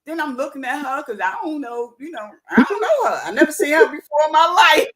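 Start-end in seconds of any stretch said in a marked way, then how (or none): 2.5-4.9 louder, emphatic Jersey accent. Real, not acted. Woman insisting she never met the stranger, in a Jersey accent. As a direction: let the Jersey come out quick. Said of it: "that jersey came out of you real quick".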